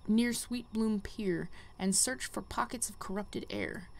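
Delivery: a hint of a solemn guide sending the hero on; quest giver voice. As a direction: read the mentor's lines with gentle gravitas, hushed in places. Reads quest giver lines aloud.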